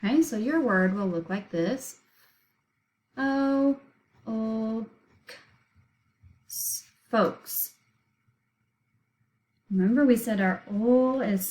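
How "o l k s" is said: "O, o, k, s" as isolated sounds with pauses; think-to-spell pronunciation. Shown as a demonstration. Teacher showing the written plural, sound by sound. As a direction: voice the silent L in "O, o, k, s" as ull. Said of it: "we're thinking to spell".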